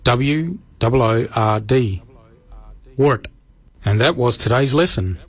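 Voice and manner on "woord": "wart" as the Noongar word for throat; Noongar pronunciation. Shown as a demonstration. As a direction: model "wart" clearly for learners. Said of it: "Wart is spelled".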